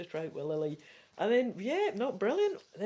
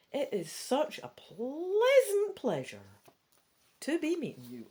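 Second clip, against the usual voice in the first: put-on Scottish accent; 6 semitones higher than usual. The speaker greeting Pandora in a Scottish accent. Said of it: "giving her a Scottish accent before".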